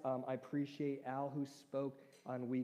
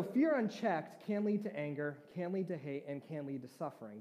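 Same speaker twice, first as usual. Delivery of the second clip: quoted movie line; 4 dB louder than usual. Acted. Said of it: "where I got that line from".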